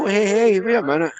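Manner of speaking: high, flustered protest; alarmed monks. Acted. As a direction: stop him in holy alarm.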